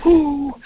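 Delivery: short high-pitched "ooh"; retold high exclamation; high imitated "ooh". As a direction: let out a quick high "ooh". Imitates a sound in his story.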